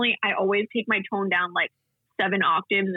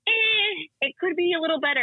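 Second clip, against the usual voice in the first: unimpressed critique; 9 semitones higher than usual. Retold or imitated. Co-host grading a friend's impression, high-pitched lukewarm verdict. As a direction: imitate a picky judge, pitched up. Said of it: "you were like".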